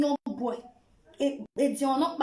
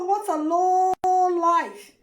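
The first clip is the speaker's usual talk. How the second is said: slow disgusted verdict; 4 dB louder, much slower than usual. Real, not acted. Contemptuous verdict, louder.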